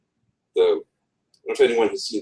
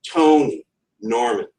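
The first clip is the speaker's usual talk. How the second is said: "Tony, Norman" with the first syllable of each name hit; DUM-da, DUM-da; trochaic stress. Shown as a demonstration. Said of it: "that's trochaic".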